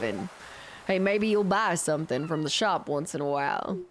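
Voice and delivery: put-on easygoing old fisherman telling his haul; old fisherman Willy.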